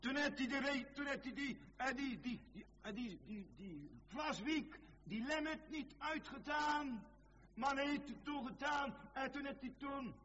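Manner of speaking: high, urgent pulpit declamation; impassioned preaching. Acted. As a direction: preach it in a high, driving chant. Preaching at full force.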